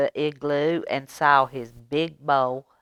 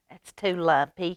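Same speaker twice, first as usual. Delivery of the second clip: lightly grumbled complaint; a touch of grumpy; mild grumble. Acted. Aluki grumbling at the lumpy bed, mildly. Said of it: "she grumbled".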